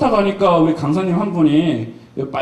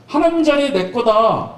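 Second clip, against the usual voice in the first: boastful Peter; 5 semitones higher than usual. Retold or imitated. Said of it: "얼마나 잘난 척하고".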